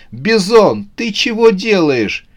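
high-pitched scolding cry. A narrator's reading. Оксана scolds Бизон over her wallpaper, crying out. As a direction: call him out in dismay. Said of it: "послышался крик Оксаны".

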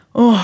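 weary exhausted sigh; tired sigh. Retold or imitated. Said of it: "так вздыхает".

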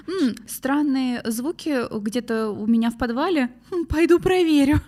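beспечный голос героя фильма; изображая героя ужастика; герой ужастика. Retold or imitated. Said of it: "Типа". (беспечный герой)

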